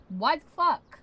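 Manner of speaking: high, loud furious outburst; sharp, high-pitched yell of rage; angry shout. Real, not acted. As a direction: explode at the screen. Yelling at the website.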